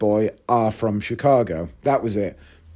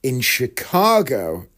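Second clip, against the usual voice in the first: slow dawning realisation; slower than usual. Retold or imitated. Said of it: "And I go".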